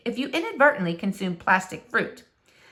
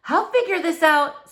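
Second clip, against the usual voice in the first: determined Flora; 6 semitones higher, 4 dB louder than usual. Acted. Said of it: "said Flora".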